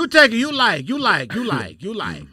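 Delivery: mock Asian takeout accent. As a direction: push food in a mock Asian accent, stepping downward. Pushy mock takeout server.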